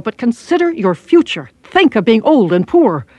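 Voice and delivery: mild acted yell. Sensible inner self shakes the feckless one, mild yell. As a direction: yell it in alarm, without full volume. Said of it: "shook me, and yelled".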